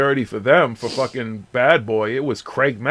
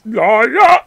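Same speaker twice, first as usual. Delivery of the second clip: mock rapper hype; 11 semitones higher, 9 dB louder than usual. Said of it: "and this".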